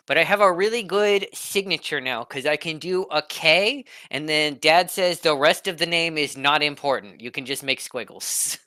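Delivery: put-on bright, boastful little kid; proud kid voice. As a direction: brag like a small child. Player voices young Kekano.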